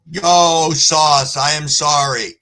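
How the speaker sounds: calling out to a guest to apologize. Real, not acted. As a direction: shout over to Sauce, sorry.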